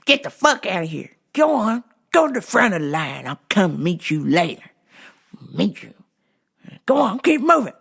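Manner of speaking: mildly gruff, impatient dismissal; mock yelling husband. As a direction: shoo the wife away, half-hearted yell. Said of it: "She likes it when I yell at her".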